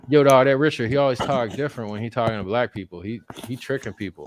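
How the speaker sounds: put-on a loud, high-pitched complainer in an African American accent, easing off at the end; mock African American accent. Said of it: "everyone's gonna complain and be like".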